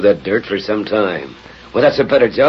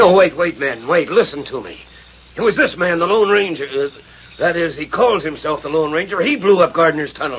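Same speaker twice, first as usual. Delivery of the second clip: desperate, high pleading; 8 semitones higher than usual. Acted. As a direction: beg for your life. Cornered villain begs the men.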